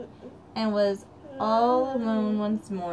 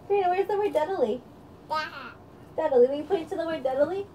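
eager teaching voice; 5 semitones higher, faster than usual. Real, not acted. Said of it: "mother quizzing baby on words".

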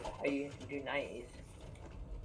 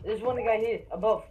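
combat callout; 7 semitones higher, 7 dB louder than usual. Real, not acted. Callout enemy position.

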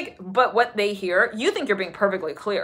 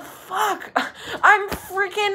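panicked traveller; 11 semitones higher, much slower than usual. Retold or imitated. Voicing panicked lost traveller.

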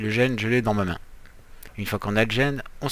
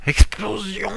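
Explosion! shouted much higher and louder; excited shout; 10 semitones higher, 8 dB louder, slower than usual. Pretend. YouTuber shouting for the explosion gene. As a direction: yell it like a kid wanting fireworks.

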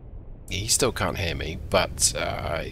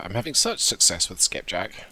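dry, sarcastic understatement. Real, not acted. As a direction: say it with a hint of sarcasm. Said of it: "a slight hint of sarcasm there".

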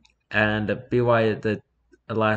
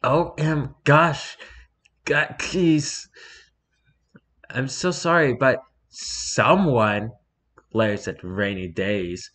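high, fretful apologetic author voice; hammed-up nervous fanfic writer apologising; mock sorry author; 5 semitones higher, 3 dB louder than usual. Reading the author's apology note.

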